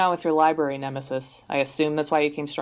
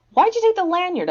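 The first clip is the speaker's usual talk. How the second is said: much higher, louder disbelief; incredulous question; 13 semitones higher, 5 dB louder than usual. Acted. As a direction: ask in amused disbelief. Amused indignant question.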